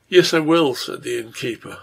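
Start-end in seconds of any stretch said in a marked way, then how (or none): 0.1-0.7 a sharp, louder "Yes, I will"; appalled. A narrator's reading. Innkeeper answering his wife, appalled. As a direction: recoil in shock as you say it.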